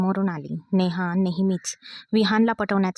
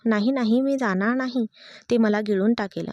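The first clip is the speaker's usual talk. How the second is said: scared cry; 2 semitones higher than usual. Acted. Village girl refusing the escalator, scared cry. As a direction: pitch up, scared protest. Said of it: "Anshika ओरडू लागली".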